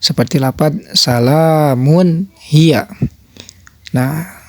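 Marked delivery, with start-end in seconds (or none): 0.9-2.8 slow "salamun hiya" with a plain n before h; measured model reading of "salamun hiya"; clear tanwin. Shown as a demonstration. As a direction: recite "salamun hiya" carefully, n clearly sounded. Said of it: "tanwin ketemu dengan ha".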